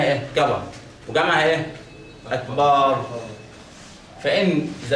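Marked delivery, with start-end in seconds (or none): 2.3-3.0 "أكبر" said as "akbaar"; added alif. Shown as a demonstration. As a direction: lengthen the vowel after the ب in "أكبر". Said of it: "زودت ألف بعد الباء كده".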